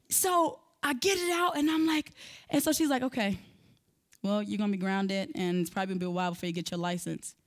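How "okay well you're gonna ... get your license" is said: softer, calm and unbothered mom; chill mom. Retold or imitated. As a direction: deliver the punishment without any heat. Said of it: "she's chill".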